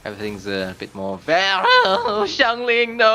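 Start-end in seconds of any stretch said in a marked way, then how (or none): 1.3-3.2 high, loud cry of alarm; alarmed yell. Real, not acted. Player calls to a character in trouble, alarmed yell. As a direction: yell out in dismay.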